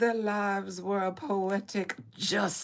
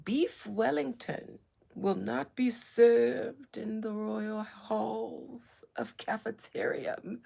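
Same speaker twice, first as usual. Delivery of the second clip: mock ancient royal voice; 2 semitones higher than usual. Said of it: "talk like this in such an ancient voice".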